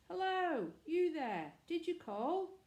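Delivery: high, loud call out; shout. A narrator's reading. Manservant calling up to the church tower, shouting. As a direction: call out to someone far above. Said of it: "Andrew shouted".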